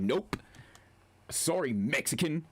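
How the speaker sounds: "Mexican" stretched slowly with heavy stress; heavy emphasis. Retold or imitated. Streamer retelling a rage-quitter's clip, heavily emphatic. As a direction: imitate him leaning hard on "Mexican". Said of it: "he said it with that much emphasis".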